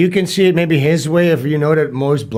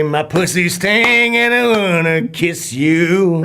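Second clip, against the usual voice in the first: put-on American twang; joking American accent; 2 semitones higher than usual. Shown as a demonstration. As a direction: keep up the attempted American accent. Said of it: "can you do an American accent or no".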